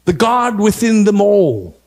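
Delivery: lightly voiced obedient henchman; put-on solemn conspirator; conspiring minion. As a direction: answer like a servant to a dark lord, drawing out line endings. Plays a minion and master.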